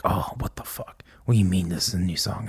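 imitating a puzzled crowd in a whisper; hushed, bewildered aside; mock whisper. Confused audience reaction, imitated.

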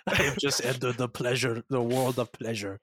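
a hint of smug, satisfied Londo. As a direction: purr it out like a man freshly satisfied. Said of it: "the first thing Londo says after all this is like".

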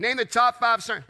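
a slip said through a chuckle; laughing false start. Real, not acted. Pastor laughs at his own slip to the church, laughing. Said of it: "but hey, watch this".

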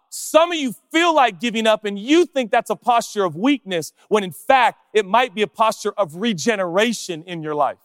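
high, loud, impassioned sermon voice; full-force preaching. Acted. Pastor to church, calling the tired to give up in full-force preaching. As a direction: drive the questions home to the crowd.

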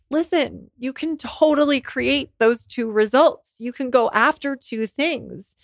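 a hint of her coach talking her through it; voicing her coach. Retelling her coach's advice to listeners, lightly voiced coach.

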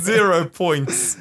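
"Zero points" stretched out slowly, lingering on "Zero"; slow savoured zero points. Retold or imitated. Echoing a cohost's reading of the review, slowly and with relish. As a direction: drag out "Zero points" for the joke. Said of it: "Oh, I love it".

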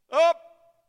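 high, loud effortful burst; sharp strained cry of exertion; straining upward. Acted. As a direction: heave the word out as if pulling yourself up. Enacts straining up on the cross.

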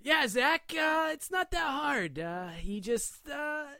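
high, slow lizard voice with hiss; reptilian voice. Shown as a demonstration. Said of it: "try to get some reptilian sounds as you talk".

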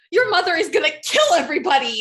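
laughing mock scolding; mock outrage. Fan scolds the nephew for staying, mock outraged. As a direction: scold him through a laugh.

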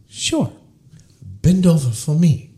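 high-pitched hammed-up Asian accent; bad Asian accent. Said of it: "sorry for my worst Asian accent".

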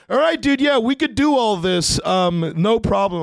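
a guy trying to stay professional; amused caller. Retold or imitated.

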